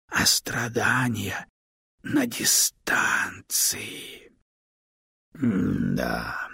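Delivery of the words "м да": low, slow drawn-out m-da; thoughtful drawn-out hmm. A narrator's reading. Stone mulling over the girl's fate, low drawn-out hmm. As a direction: stretch it out low, lost in thought. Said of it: "задумчиво протянул камень".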